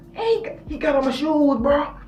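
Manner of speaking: high whiny tattling complaint; hissy fit. Retold or imitated. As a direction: tattle to the teacher like a wronged kid. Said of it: "really having a hissy fit".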